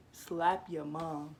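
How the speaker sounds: emphatic mock scolding; slow emphatic scold. Real, not acted. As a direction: drag out slap your mom like a scolding.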